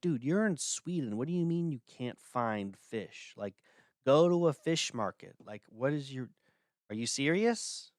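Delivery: mock outrage, as if you can't believe it; exasperated disbelief. Scolding the interviewee in Sweden who can't find fish, incredulous.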